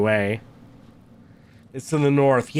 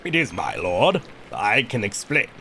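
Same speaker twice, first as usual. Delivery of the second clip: low-pitched, apologetic reply; deferential prior; 6 semitones lower than usual. Acted. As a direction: answer your lord humbly and low. Prior answers the lord in game.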